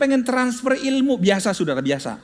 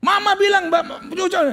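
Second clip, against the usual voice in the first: put-on eager child; 10 semitones higher, 3 dB louder than usual. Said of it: "boy running to his father".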